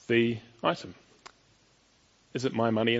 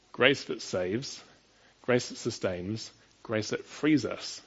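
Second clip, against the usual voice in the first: slow emphatic triad; slower than usual. Acted. Preacher's rhetorical triad.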